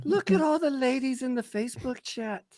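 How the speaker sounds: put-on high, hammy Canadian accent; a weak attempt at a Canadian accent. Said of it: "that was my weak attempt at a, a Canadian accent".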